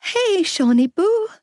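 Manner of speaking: high, strained greeting; strangled out. A narrator's reading. Young woman greeting a crying toddler, strangled. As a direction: force out a gentle hello through dread. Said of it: "I strangled out".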